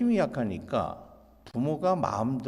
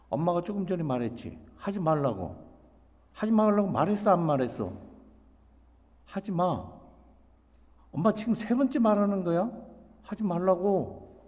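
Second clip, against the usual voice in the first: mom's insistent, mildly raised scolding; repetitive nagging; 3 semitones higher than usual. Acted. Mom reminding her child for the third time, nagging. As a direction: press the same point, naggingly. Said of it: "하면서 계속 반복적으로 얘기합니다".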